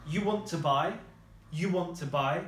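"You want to buy" as a question by tune alone; statement word order, asking tone; question intonation. Shown as a demonstration. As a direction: let "buy" lift like an informal question. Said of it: "we use that intonation in our voice".

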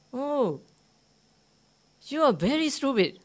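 high, scornful jeer at the owner; mocking drinker. Drinker mocking the rabbit's owner, high scornful jeer. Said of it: "Like that".

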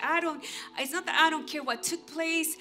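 earnest vow. Retold or imitated. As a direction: declare it like a solemn promise. Preacher voicing own vow to God.

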